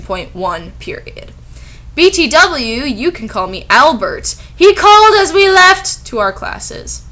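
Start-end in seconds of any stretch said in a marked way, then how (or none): 1.9-7.0 mock Dumbledore. Dumbledore voiced in mock reading.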